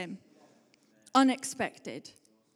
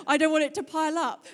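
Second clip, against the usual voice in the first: raised, louder retold fluster; hammed-up stressed protest; mock stress; 5 semitones higher, 5 dB louder, faster than usual. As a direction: act out checkout panic. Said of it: "you're, like, just stressed".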